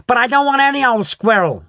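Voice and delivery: high, loud whiny shout; bratty shout. A narrator's reading. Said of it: "Veruca shouted".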